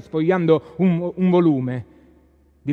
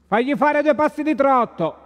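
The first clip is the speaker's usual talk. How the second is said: higher called order across the yard; shouted order; 9 semitones higher than usual. Acted. Ninì calling an order to the coachman, raised voice. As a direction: call the order out to the groom. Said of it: "gridò Ninì al cocchiere".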